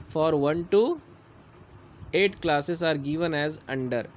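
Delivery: slow, deliberate syllabus read-out; slow dictation reading. Acted. Teacher to class, dictating syllabus objectives slowly. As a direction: read the official text slowly, word by word. Reads syllabus text aloud.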